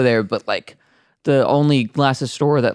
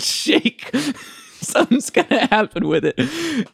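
high excited voice; 11 semitones higher, slower than usual. Acted. Archaeologist quote climax in joke.

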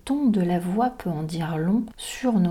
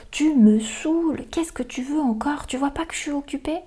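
irritated mother; 7 semitones higher than usual. Retold or imitated. Irritated mother retort example.

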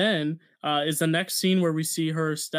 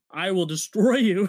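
mock Sokovian-style accent; 3 semitones higher, 5 dB louder than usual. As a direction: imitate an accented villain's threat forcefully. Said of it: "her accent comes back".

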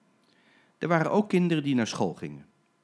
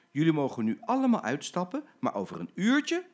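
friendly announcement; 5 semitones higher, 3 dB louder than usual. Acted. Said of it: "zei toen".

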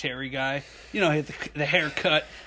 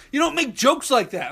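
mildly stern rebuke; 9 semitones higher, 5 dB louder than usual. Retold or imitated. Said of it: "he's like".

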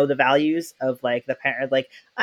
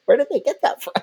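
puzzled; 13 semitones higher, 4 dB louder than usual. Retold or imitated. Puzzled by kids' new word.

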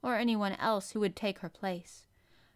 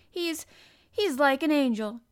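high, loud, halting outburst; fiery defence; 7 semitones higher, 9 dB louder than usual. A narrator's reading. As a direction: burst out hotly defending him. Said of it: "Mary's eyes flashed fire".

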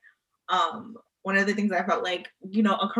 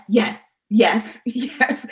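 eager yes; 2 semitones higher, 6 dB louder, much slower than usual. Retold or imitated. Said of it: "was like".

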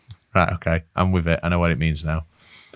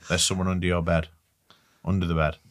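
dark whisper behind you; 4 semitones lower, 10 dB quieter, faster than usual. Acted. Spooky reading of title.

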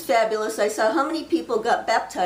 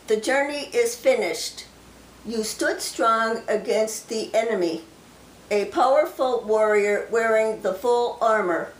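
slow, solemn delivery of a prophecy; prophecy reading; slower than usual. Acted. Sharing a received prophecy with viewers, slow and solemn. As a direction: speak the words as if the Lord speaks through you.

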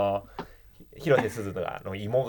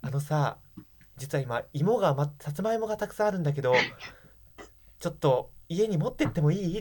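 lightly voiced Suzu; 5 semitones higher than usual. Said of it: "(広瀬すずが) 来て".

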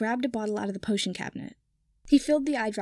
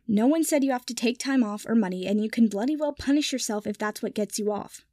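curt. Acted. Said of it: "Draco said shortly".

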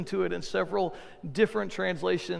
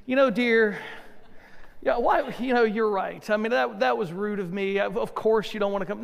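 mock apologetic king. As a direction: play the sorry husband with irony.

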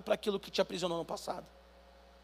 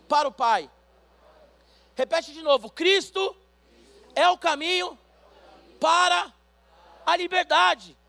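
higher, louder call for the church to repeat; fervent preaching; 5 semitones higher, 6 dB louder than usual. Acted. Pastor having the congregation repeat after him, loud fervent preaching. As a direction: lead the crowd, each phrase punched. Call-and-response and scripture reading.

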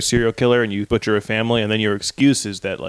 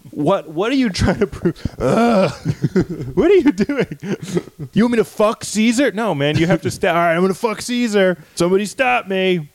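goofy conspirator; 7 semitones higher than usual. Acted. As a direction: play him as a giddy fool. Conspirator acting high and wild.

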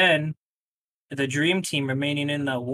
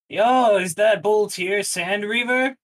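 surprised greeting; 5 semitones higher, 4 dB louder, slower than usual. Retold or imitated. Brother greets Boltier, surprised.

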